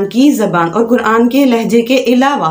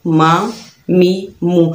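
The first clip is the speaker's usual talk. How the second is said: मा, मी, मु joined gently, no jolt, not drawn out; soft and easy; much slower than usual. Shown as a demonstration. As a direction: ease मा, मी, मु out softly. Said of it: "नरमी से और आराम से".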